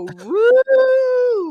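high, loud yelp like a dog; sudden high dog yelp; dog woo. Retold or imitated. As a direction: yip it like a puzzled dog. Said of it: "did the dog just go".

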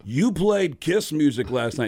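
slow, accusing put-on voice; a rock star. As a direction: confront him with heavy, deliberate words. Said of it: "if you called him as Gene Simmons".

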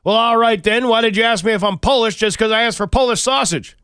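righteous outrage at the clerk; self-righteous indignation. Acted. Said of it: "deep self-righteous, uh, indignation".

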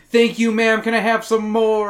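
hammed-up grateful pleading; eager submissive. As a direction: beg brightly like a willing victim. Acts out begging for more slaps.

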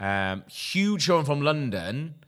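talking with a mouthful of kebab; words round a bite of food; mouth full. Real, not acted. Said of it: "I've got kebab in my mouth".

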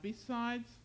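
hesitant, fading away; trailing off. A narrator's reading. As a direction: let the word hang in the air. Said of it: "Aaron's voice trailed off".

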